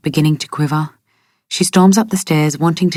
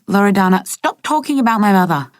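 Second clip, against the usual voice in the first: higher-pitched angry demand; heated protest; 5 semitones higher than usual. Acted. Rosie to Martha about her mother, heated protest. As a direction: cut her off, voice rising. Acted quarrel over dead mother.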